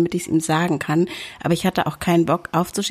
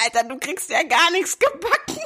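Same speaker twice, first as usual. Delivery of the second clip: laughing retort; 10 semitones higher than usual. Retold or imitated. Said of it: "Hab ich gesagt".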